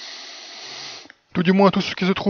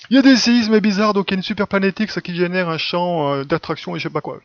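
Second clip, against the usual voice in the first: much higher and louder, hammed-up mock discovery; mocking scientist voice; 4 semitones higher, 3 dB louder than usual. Sending up astronomers' explanations for new planets, in a loud, high mock announcement.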